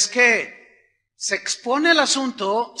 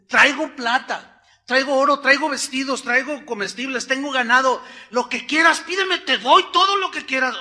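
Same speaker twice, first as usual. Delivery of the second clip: higher-pitched, insistent list of gifts; eager offering; 4 semitones higher than usual. Retold or imitated. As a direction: act out a generous man piling up offers. Rich healed man offers everything.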